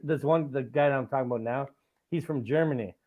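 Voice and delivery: ordinary talk, nothing marked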